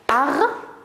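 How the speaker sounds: "Harmonica" in four beats, har, mo, ni, ca; split into syllables. Shown as a demonstration. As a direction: pause after every syllable of "Harmonica". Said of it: "Alors, écoutez bien".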